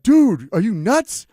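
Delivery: slow, loud, high disbelief; incredulous yell. Retold or imitated. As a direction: drag it out like he can't believe it. Theory staring in disbelief.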